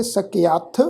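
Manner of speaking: ਸਕਿਆਥ as "sakeaath", long "aa"; ਸਕਿਆਥ said carefully as "sa-ke-aath"; shown pronunciation. Shown as a demonstration. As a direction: end ਸਕਿਆਥ on an aspirated "th". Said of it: "ਪਾਠ ਉਚਾਰਨ ਕਰਾਂਗੇ".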